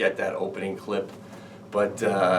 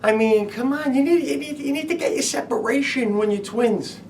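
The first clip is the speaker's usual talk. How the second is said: mock incredulous; 13 semitones higher than usual. Mocking the twins clip.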